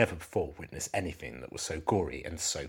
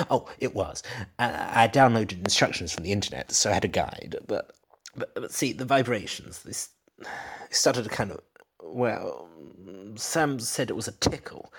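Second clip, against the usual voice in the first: nervous husband; 4 semitones higher than usual. Acted. Husband nervously explaining to detective.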